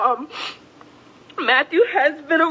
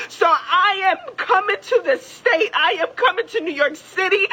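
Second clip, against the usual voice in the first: tearful. Real, not acted. Crying plea.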